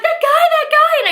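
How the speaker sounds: very high, slowed re-enacted shriek; panicked squeal, acted out; screaming in panic. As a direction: mimic a terrified scream for help. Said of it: "I'm screaming".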